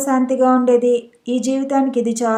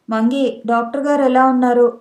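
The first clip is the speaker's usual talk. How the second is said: plain reading voice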